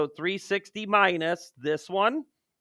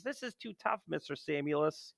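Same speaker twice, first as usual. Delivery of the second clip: mock whiny student; 10 dB quieter than usual. Teacher voicing a whining student.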